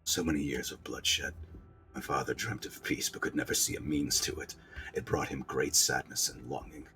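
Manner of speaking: low, soft, sorrowful prince voice; quiet, brooding royal monologue; wounded, bitter prince. Acted. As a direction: confess old grief through wounds.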